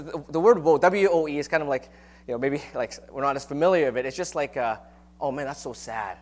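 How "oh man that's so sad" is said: softly sighing oh no, half-hearted sorrow; mock woeful sigh. Shown as a demonstration. Preacher mimics woe as mild sorrow. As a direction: sound a little sad and sorry. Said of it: "like that kind of attitude".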